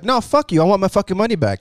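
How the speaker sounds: high, fast mock outrage; imitating an indignant complainer; retold angry demand. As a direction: play the customer demanding a refund. Acted quarrel over a refund.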